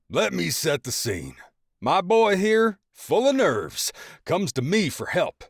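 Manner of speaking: high, loud relishing father; gleeful storytelling dad. A narrator's reading. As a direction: savor the story at his son's expense. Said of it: "grinning like he just hit the jackpot".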